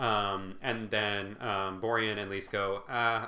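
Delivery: ordinary delivery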